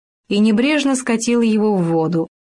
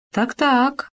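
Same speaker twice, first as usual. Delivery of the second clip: higher bossy fox voice; sharp fox command; 4 semitones higher than usual. A narrator's reading. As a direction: order Khoma about. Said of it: "прикрикнула она". (лиса покрикивает, выше)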